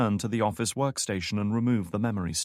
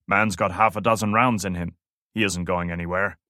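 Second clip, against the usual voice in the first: louder, borrowed guard's voice; imitating Lopez; 5 dB louder than usual. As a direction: pose as the guard on the radio. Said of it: "imitating the man's accent".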